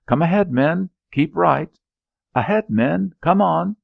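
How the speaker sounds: high, loud battle cry; rally the men forward at full voice; shouted orders. Acted. Officer shouting his men on through the thicket.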